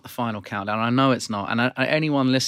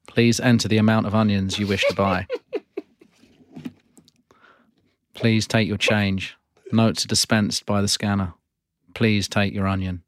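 automated checkout announcements; self checkout prompts. Acted. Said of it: "You are playing the character Prompt".

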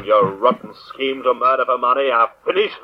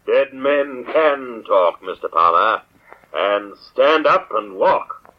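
slow, eerie voice from beyond the grave; slow ghostly voice; slower than usual. Acted. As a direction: speak like a vengeful ghost. Shadow poses as ghost, slow.

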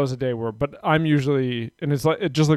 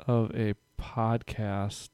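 mock offended; 3 semitones lower, 6 dB quieter, much slower than usual. Real, not acted. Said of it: "just so she knows I'm kidding".

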